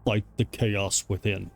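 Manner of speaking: slow, low, solemn mystic; mysterious oracle voice. Acted. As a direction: intone it like a cryptic spirit. Voices a mystical game figure.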